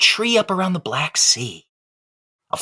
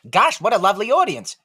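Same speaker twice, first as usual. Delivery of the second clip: dummy act voice; 4 semitones higher than usual. Acted. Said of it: "plus this".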